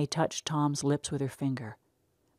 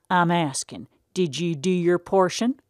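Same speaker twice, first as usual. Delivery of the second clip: stern farmer father; 3 semitones higher, 5 dB louder than usual. Acted. Pa confronting Tom about unhoed weeds, loud stern country voice. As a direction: lay it on him like a stern old farmer. Pa demanding an answer.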